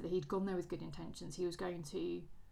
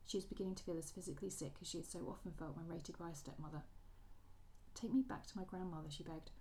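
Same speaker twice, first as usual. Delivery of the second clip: story reading. A narrator's reading. Podcaster reads the waltz scene to her co-host, story narration. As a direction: read the ballroom quarrel as a measured story narration. Reads novel passage aloud.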